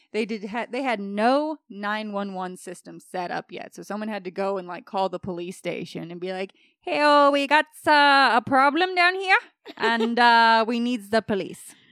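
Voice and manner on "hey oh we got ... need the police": vaguely Swedish put-on accent, higher and louder. Acting out someone calling the police station, in a put-on Swedish-ish accent. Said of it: "What accent was that anyways?".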